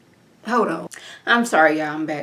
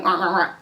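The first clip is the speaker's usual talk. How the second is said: imitated pig grunting; pig noises; 2 semitones lower, 3 dB quieter, faster than usual. Recapper voices the pig's verdict, imitated grunts. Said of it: "Pig went".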